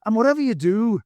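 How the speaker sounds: high, loud earnest warning; an earnest Irish warning; serious warning. Acted. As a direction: warn him in mock earnest. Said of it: "he added seriously".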